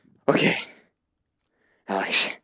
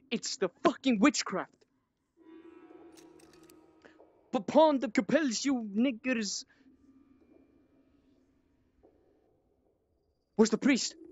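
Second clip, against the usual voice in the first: higher, much softer conspiratorial tone; hushed realisation; 6 semitones higher, 8 dB quieter than usual. Real, not acted. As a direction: murmur the accusation as if discovered. Hushed accusing after reveal.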